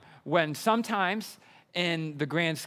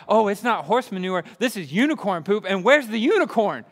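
put-on excited kid; 4 semitones higher, 5 dB louder than usual. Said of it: "They were so excited".

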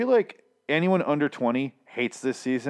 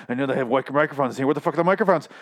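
freaking out; 4 semitones higher, faster than usual. Retold or imitated. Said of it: "he's freaking out over the feds".

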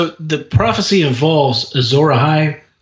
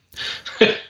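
breathy laugh; 6 dB quieter than usual. Real, not acted. Laughs at the Qyburn joke.

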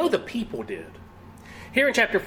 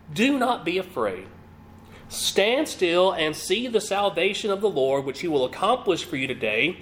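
calm. Acted. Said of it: "Just that calm, that collected".

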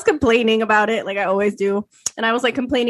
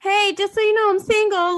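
mock stalker line; 10 semitones higher than usual. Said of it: "mocking stalker's line".

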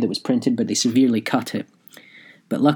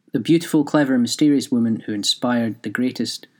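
tag. Real, not acted. Reads out own article headline.

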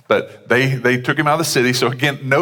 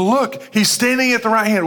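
bold proclamation; 11 semitones higher than usual. Retold or imitated. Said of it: "he's going".

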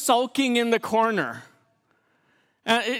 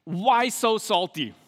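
calm divine question. Retold or imitated. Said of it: "And God asks him".

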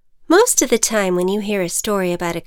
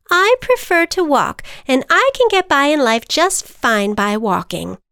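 higher, louder defensive butterfly; 6 semitones higher, 6 dB louder than usual. Acted. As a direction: insist you're fine walking. Butterfly character voice.

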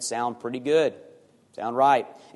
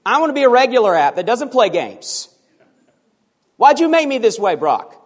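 high, loud complaining app; whining app; 7 semitones higher, 7 dB louder than usual. Pretend. The Versus app complains to its maker Brock, high and whiny. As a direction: sulk like a toy that wants out. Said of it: "what if the Versus app said to Brock".

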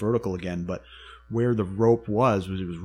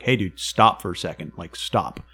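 a raised, urgent call to a climber above; firm call to stop; 2 semitones higher, 5 dB louder than usual. Retold or imitated. Calling up to his partner on the wall to stop, raised voice. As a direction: tell him to stop, louder and firmer.

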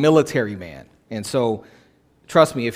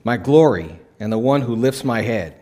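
scripture reading. Acted. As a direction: read the psalm with reverence. Reads Psalm aloud.

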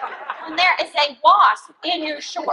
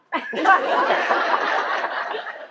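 laughing; 2 semitones lower, 3 dB quieter than usual. Real, not acted. Laughing while retelling friend's recap.

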